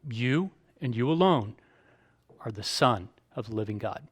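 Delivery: "you and you alone" weighted, then a pause; emphatic YOU. Shown as a demonstration. Peter confessing the Son of God, "you" emphatic. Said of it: "Once again, in emphatic form".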